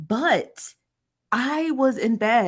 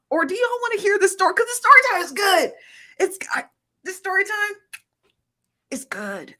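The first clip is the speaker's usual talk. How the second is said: high, louder, gushing over the story; excited; 12 semitones higher, 4 dB louder than usual. Real, not acted. Host hyping the story time to her chat, excitedly high. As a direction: sell the story like it's the best thing ever.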